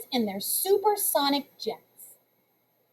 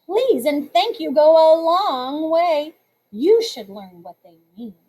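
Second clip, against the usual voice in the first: smug lecturing; 4 dB louder than usual. Acted. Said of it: "Tiffany said as she pushed past".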